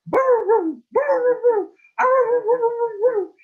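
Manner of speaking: high, loud bow-woo barking; almost a dog bark. Acted. Coyote after a day of practice, barking high and loud. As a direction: howl it into something like a bark. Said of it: "He sounded kind of like a dog".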